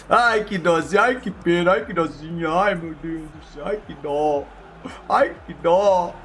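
mock pity. Mock pity after conceding.

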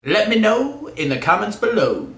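slow, oddly swooping sing-song; goofy slow-motion lilt; silly drawn-out delivery. Pretend. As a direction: stretch the words out playfully. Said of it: "I said it like this".

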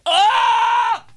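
loud high horrified shriek; mock scream. Son hearing dad speak Italian, hammed-up scream. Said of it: "I'm like".

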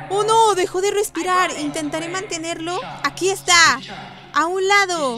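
loud, high urgent calls; panicked rescuer shouting orders; urgent alarm. Acted. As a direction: rush in to save him before it's too late. Emergency rescue, voicing panic.

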